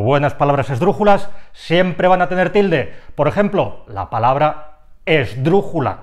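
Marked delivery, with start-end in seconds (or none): 5.1-6.0 "esdrújula" with drú stressed; third-last syllable stress. Shown as a demonstration. Teacher showing the word is itself esdrújula, stressed on drú. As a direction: lean on "drú" in "esdrújula", letting the ending fall. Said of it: "el golpe de voz recae en la tercera sílaba".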